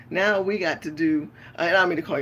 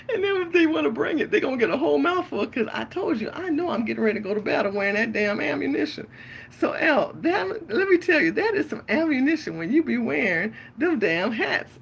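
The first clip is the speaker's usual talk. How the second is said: fired up; 8 semitones higher, 4 dB louder than usual. Real, not acted. Riled up about battle.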